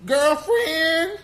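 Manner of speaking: very high, loud mock Black accent; AOC's put-on Black accent. Host mocks the speech clip, exaggerated Black accent. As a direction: parrot her in a hammed-up, high Black accent. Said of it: "Where the fuck did you get that accent from?".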